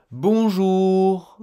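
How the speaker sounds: Bonjour with the R almost imperceptible, a breath of air at the end; barely audible R. Shown as a demonstration. Teacher showing how faint the French R is. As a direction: let the R in Bonjour fade out like the wind. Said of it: "Écoutez bien".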